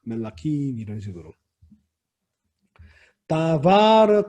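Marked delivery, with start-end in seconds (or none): 3.3-4.3 다바르 with the weight on 바; stress on second syllable. Shown as a demonstration. Teacher showing Hebrew singular accent, stressed 바 in 다바르. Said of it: "강세가 마에 있었는데".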